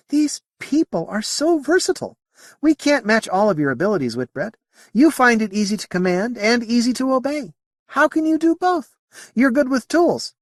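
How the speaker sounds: high-pitched, marvelling alien; alien character, admiring. Acted. Moti marvels at human abilities, high alien voice. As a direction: pitch it well up, puzzling over humans.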